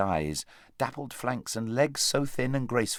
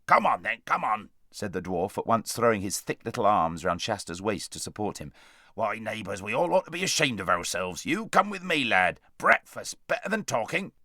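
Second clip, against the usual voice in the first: raised dwarf voice turning concerned; a gruff helper noticing the faint boy; kindly dwarf. Acted.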